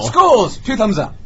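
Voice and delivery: high, loud plug for the club; mock endorsement. Ending his club tale, loud mock endorsement. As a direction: belt out the name like a slogan.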